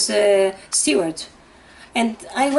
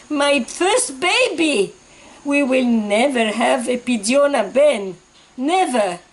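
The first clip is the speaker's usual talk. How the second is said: grieving; 2 semitones higher, slower than usual. Retold or imitated. Grieving husband's lament.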